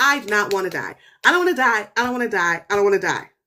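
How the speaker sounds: desperate, hysterical sobbing, repeated over and over. Retelling a movie scene where a dying husband breaks down: imitating a sobbing, begging man. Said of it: "He's sobbing. He's hysterical. He's crying. He is begging".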